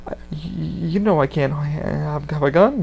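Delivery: lightly voiced stammer; a hint of Arthur stumbling over words; mildly imitated hesitant speech; Arthur's halting way of talking. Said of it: "this is the way he talks".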